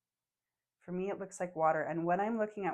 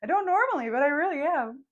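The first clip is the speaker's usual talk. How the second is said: overcome with emotion; 6 semitones higher, 7 dB louder than usual. Real, not acted. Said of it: "I'm getting so emotional".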